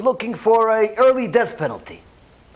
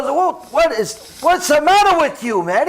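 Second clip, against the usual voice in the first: angry yell; 8 semitones higher than usual. Acted. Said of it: "He starts yelling at the guy".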